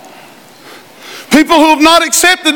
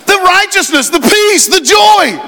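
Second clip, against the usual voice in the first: preaching shout; 6 semitones higher than usual. Real, not acted. Preaching at full force.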